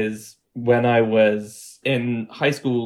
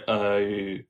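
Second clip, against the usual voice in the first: Australian oh; 4 dB quieter than usual. Shown as a demonstration. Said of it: "the middle go".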